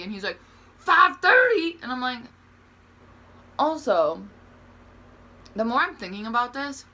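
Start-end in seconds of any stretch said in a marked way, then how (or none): 0.8-1.8 slow, higher and louder in disbelief; mock astonished repeat of the time; retold shock at the hour; surprised question.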